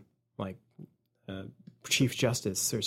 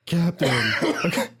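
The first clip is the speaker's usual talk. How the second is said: Sulu impression; slower than usual. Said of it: "your Sulu".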